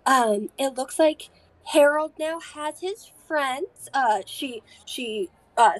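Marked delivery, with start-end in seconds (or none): 0.0-3.9 a lightly voiced chirpy granny greeting; little old lady. Waitress greets the party about Harold, in a sweet old lady voice. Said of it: "and she goes".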